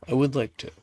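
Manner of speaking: blocked nose, stuffy voice; congested. Real, not acted. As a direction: talk through a stuffed-up nose. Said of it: "I'm a bit congested as well".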